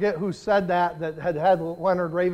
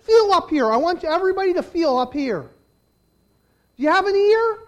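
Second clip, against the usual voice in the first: high, loud call to the crowd; 9 semitones higher, 9 dB louder than usual. Real, not acted. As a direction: shout instructions across the congregation. Preacher calls out to congregation.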